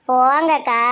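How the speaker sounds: coy, drawn-out protest; bashful brush-off. Acted. Bride dodging nosy questions next morning, coy protest. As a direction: wave off the question shyly. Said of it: "அவ வெக்கப்பட்டு தாண்டி போறா".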